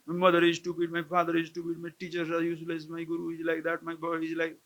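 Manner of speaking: rattled-off monotone litany of blame; mock complaining. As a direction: mimic someone listing complaints on one unvarying note.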